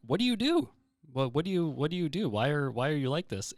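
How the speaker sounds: high, loud, disbelieving questions; incredulous doctor. Retold or imitated. Doctor asks the healthy girl her secret, incredulous. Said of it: "he goes".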